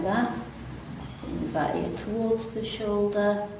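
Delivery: calm, unhurried stretch instructor; easy, even yoga-class delivery with long pauses; guided relaxation. Real, not acted. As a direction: guide them gently through it, pausing between phrases. Leads gentle seated stretches.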